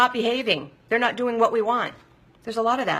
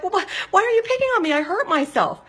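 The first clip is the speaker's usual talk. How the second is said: high, fast, hurt protest; really upset; 12 semitones higher, 3 dB louder, faster than usual. Retold or imitated. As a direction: re-enact a wounded, whiny comeback. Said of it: "I used to get really upset".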